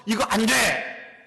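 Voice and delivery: loud, high, slow "no!"; forbidding shout. Acted. West tribes shouting a ban at the east in anger. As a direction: bark the ban at them.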